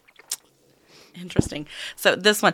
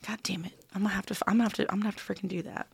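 whispered self-scolding; muttering; 7 dB quieter, much faster than usual. Real, not acted. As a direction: mutter it under your breath.

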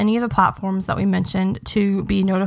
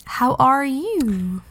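mock British greeting; British accent; 3 semitones higher, much slower than usual. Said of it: "British accent".

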